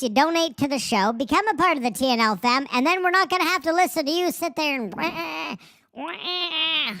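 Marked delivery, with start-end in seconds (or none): 4.9-6.9 mock crying wah. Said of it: "That was an irritating noise".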